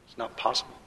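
quiet afterthought from the pulpit; soft echo. Real, not acted. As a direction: let it drop, almost to yourself. Preacher repeats the line softly.

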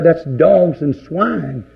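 drawn out, each word set down slowly; preacher slowing right down on the verdict; slow, weighty quote. Retold or imitated. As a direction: let it sink in, slow and heavy. Jesus quoted slowly, then repeated.

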